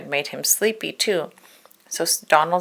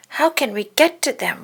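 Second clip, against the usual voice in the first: wondering chipmunk; 8 semitones higher than usual. A narrator's reading. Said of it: "wondered Chip".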